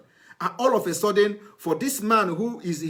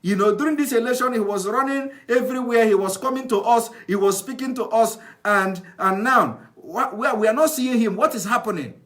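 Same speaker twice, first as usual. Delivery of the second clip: raised, louder voice of puzzled villagers; complaining villagers; 4 semitones higher, 3 dB louder than usual. Retold or imitated. Villagers asking the aide where their chairman went, loud and complaining. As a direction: voice the village folk demanding answers. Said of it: "they ask you".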